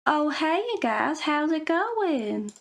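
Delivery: a lightly voiced chirpy girl, slow on the last words; sugary greeting. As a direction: lightly play a girl greeting friends, stretching it out. Acted schoolgirl small talk skit.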